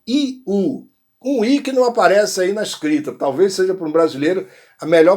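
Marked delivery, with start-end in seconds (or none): 0.1-0.9 I U as two separate vowels, pitched higher; I-U vowel glide. Shown as a demonstration. Teacher explaining the sound to Brazilians, I U said apart. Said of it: "um som de I U".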